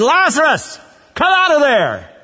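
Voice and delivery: high, loud call into the tomb; commanding shout. Acted. Jesus calls the dead man out.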